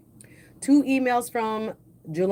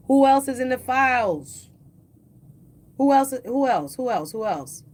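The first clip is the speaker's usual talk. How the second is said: dramatic loud teaser, fading out; 5 semitones higher, 4 dB louder than usual. Acted. Teasing the next name dramatically.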